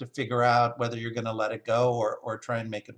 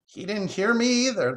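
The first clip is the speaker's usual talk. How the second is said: high-pitched bird chatter; cackling magpie; 10 semitones higher, 4 dB louder than usual. Acted. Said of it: "the magpie cackled".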